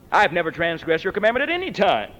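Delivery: mild resentful complaint; a touch of grievance in the voice; resentful son. Retold or imitated. Elder brother complaining to father, mildly resentful. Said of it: "What an attitude".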